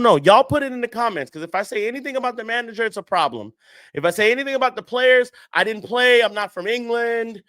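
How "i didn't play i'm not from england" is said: mocking fans. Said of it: "that y'all like to say".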